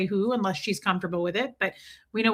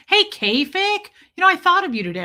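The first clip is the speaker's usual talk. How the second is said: pitched up, bright and loud to hail a friend; light up and greet her; excited high greeting; 9 semitones higher, 6 dB louder than usual. Real, not acted. Streamer hailing a viewer she missed, excited and high.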